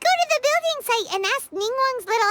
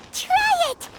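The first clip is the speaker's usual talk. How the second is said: eager offer; 10 semitones higher than usual. Acted. Offering Shenhua a drumstick.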